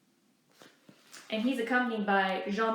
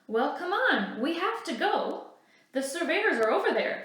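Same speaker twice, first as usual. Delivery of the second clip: higher, louder hurried urging; urgent; 7 semitones higher, 5 dB louder than usual. Acted. Benjamin urging Echo to leave, louder urgent call. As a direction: hurry a friend along.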